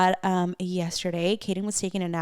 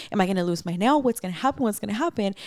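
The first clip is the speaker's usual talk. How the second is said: rapid-fire worried questions, retold; mildly panicked replay of spiralling questions; retold freak-out; faster than usual. Retelling the broken nail to viewers, mild mock panic. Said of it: "I'm, like, freaking out".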